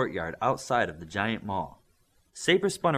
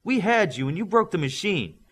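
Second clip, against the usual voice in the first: mild growl; 9 semitones higher, 4 dB louder than usual. A narrator's reading. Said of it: "Newton growled".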